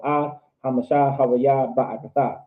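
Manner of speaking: each sound pronounced, words flowing together; fluent demonstration, dropping at the end; fluent, paced. Shown as a demonstration. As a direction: pace yourself evenly through the phrase. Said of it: "and I'm saying it fluently".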